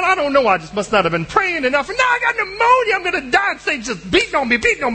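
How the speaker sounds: high, hammed-up fretting; mock-dramatic worry; mock panic. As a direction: whine it like a doomed hypochondriac. Mocking a panicky believer.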